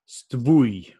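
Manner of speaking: stvui said slowly on its own; slow syllable stvui for a learner; second syllable alone. Shown as a demonstration. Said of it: "So first syllable".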